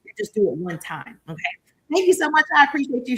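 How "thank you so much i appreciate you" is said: louder, bright gushing gratitude read from chat; gushing thanks. Retold or imitated. Reading a viewer's thanks, gushing. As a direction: gush thanks warmly to a viewer. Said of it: "She said".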